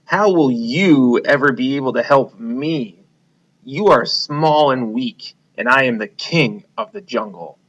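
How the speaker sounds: lightly voiced lion laughing at the mouse; scornful lion. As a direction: scoff at the tiny mouse. Lion mocks small mouse.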